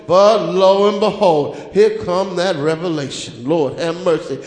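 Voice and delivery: low, tired complaint of a worn-out prophet; weary prophet. Acted. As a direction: sigh it out like a prophet who has given up. Voicing weary Jeremiah, low.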